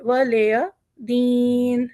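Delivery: वलिया said light, no doubled या; no shadda on ya. Shown as a demonstration. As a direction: keep या single and short in वलिया. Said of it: "ना या के ऊपर तशदीद है, ना ही हरूफ मद है". (या पर तशदीद नहीं)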